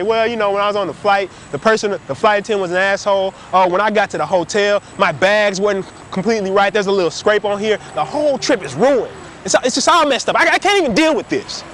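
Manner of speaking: griping about every little thing, rising; whiny complaining. Retold or imitated. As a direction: whine like a chronic complainer. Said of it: "They'll say".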